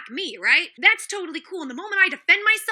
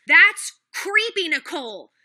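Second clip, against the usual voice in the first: disgusted call-out; 2 semitones higher, 4 dB louder, slower than usual. Real, not acted. Calls out Nicole directly.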